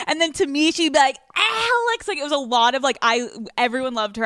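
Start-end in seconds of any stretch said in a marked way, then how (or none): 1.3-2.1 high-pitched Southern mom holler; Southern accent. Retold or imitated. Host imitating friend's mom, wild Southern accent. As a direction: imitate a Southern mother calling out. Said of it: "she had a wild accent".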